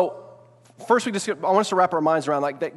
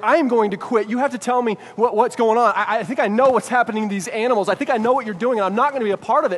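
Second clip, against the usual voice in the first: a hint of defiant resolve; determined; 3 semitones higher than usual. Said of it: "you're like".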